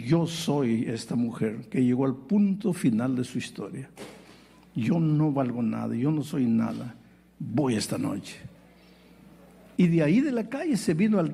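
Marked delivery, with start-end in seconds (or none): 0.0-8.4 put-on despairing young woman. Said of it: "Porque dice así".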